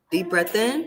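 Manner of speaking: counting up in pitch; breathing cue. Shown as a demonstration. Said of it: "leads breathing exercise".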